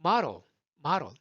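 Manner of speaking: quick, relaxed American model; easy American flap. Shown as a demonstration. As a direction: model as a short "mah-ro". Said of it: "쭉 편해요".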